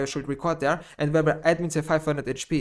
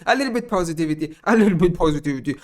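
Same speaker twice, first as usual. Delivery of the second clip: mock cheerful quote; 4 dB louder, much faster than usual. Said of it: "I said".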